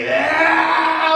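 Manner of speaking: high, drawn-out mock yeah; girlfriend voice. Mimicking girlfriend's high chirpy yeah.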